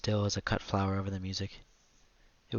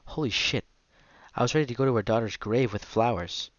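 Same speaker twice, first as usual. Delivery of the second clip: exasperated venting; 2 semitones higher, 6 dB louder than usual. Retold or imitated. Mother venting after the customer leaves.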